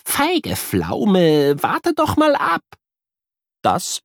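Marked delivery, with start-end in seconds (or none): 0.1-2.6 higher, mock scolding; scolding friend. A narrator's reading. Invisible friend chides the scared boy, mock scolding. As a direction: chide him playfully. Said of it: "Kuno schimpft".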